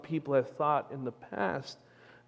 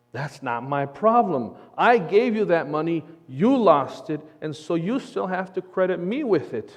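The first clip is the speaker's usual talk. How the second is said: firm, indignant pushback with punched words; acted indignation; 2 semitones higher, 5 dB louder than usual. Cowboy rebuts bank manager, mildly angry. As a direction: lay the blame squarely on them. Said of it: "What do you think the cowboy would say".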